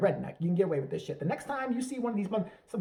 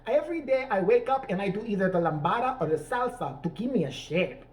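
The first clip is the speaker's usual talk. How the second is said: mock Spanish accent; 3 semitones higher than usual. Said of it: "talking this way and one day talking another way".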